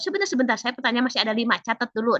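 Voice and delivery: lightly voiced busy examiner; examiner cutting in. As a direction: examiner telling the student to wait and take notes, hurried. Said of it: "perhatikan intonasi penguji".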